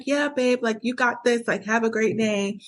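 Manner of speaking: excited hype for the partner; upbeat cheering. Retold or imitated. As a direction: cheer your partner on, light and sunny. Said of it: "I feel good that he's feeling good".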